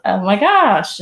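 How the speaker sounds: put-on valley girl upswing. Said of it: "had that upswing, like, lyrical".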